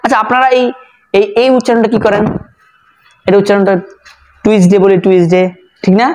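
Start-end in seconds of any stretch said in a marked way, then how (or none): 4.4-5.4 টুইসডে said as "tuisde", with a short "ui" glide; common mispronunciation. Shown as a demonstration. Teacher quoting learners' common mistake, mispronounced. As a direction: say টুইসডে the common wrong way, "tuis-de". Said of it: "এটাও ভুল উচ্চারণ".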